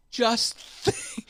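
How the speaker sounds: high, stretched Just think; mock teacher's motto. Echoing the teacher's sign, high and stretched. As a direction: sing out think with a rising lilt.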